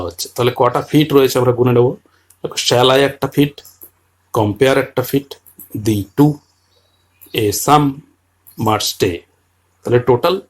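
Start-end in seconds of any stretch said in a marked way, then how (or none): 2.5-9.2 each foot set apart with pauses; counting feet. Shown as a demonstration. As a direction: count the five iambs aloud.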